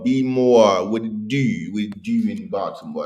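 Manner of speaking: put-on Baltimore accent; playful Baltimore accent, lightly laid on. Shown as a demonstration. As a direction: say it like a Baltimore local greeting the city. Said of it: "That's my Baltimore accent".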